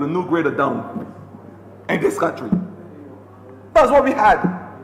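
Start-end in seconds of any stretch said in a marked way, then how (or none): 3.7-4.7 higher and louder, hammering the point home; emphatic loud refrain. Real, not acted. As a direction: ring it out to the chamber like an accusation. Same refrain, next round of attack.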